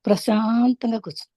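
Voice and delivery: measured meditation-teacher delivery with long pauses; unhurried spiritual instruction, phrase by phrase; guided meditation. Real, not acted. Leads a breath meditation.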